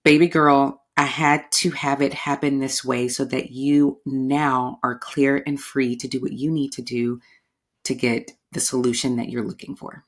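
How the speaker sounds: calm, loving reassurance; gentle divine voice. Retold or imitated. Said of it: "I literally heard this".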